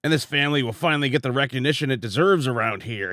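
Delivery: lightly voiced villain; fast low scheming voice. Voicing villainous character.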